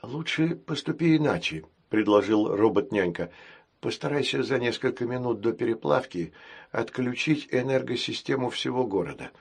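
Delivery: soft, wise nanny robot; calm, quiet counsel; gentle care robot. Acted. (мягко, мудро)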